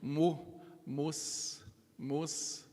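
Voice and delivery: "Mu, mus" with rounded forward lips; soft rounded "mus"; mu with dhamma. Shown as a demonstration. Teacher showing rounded lips for the dhamma. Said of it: "Forward circling movement".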